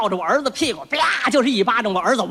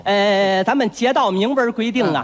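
put-on old neighbour granny; 3 semitones lower than usual. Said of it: "街道王奶奶".

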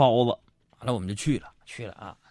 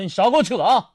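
higher, louder mock-angry telling off; angry retort; 10 semitones higher, 5 dB louder than usual. Customer scolds waiter over expired wine, mock-angry. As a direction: snap back at the waiter, hammed up. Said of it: "当时我一听我就火了".

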